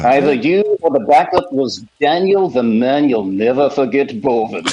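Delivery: put-on lightly Welsh, old preacher voice; a hint of a Welsh pulpit voice; Welsh preacher impression. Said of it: "Doctor Lloyd Jones".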